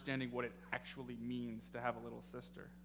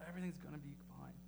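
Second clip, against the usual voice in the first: gentle reassurance; 9 dB quieter, faster than usual. Retold or imitated. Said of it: "I heard God saying to me".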